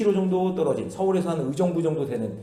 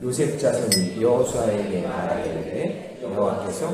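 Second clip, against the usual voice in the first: congregational reading; 4 semitones lower, 5 dB quieter, slower than usual. Real, not acted. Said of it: "같이 한번 읽어봅니다".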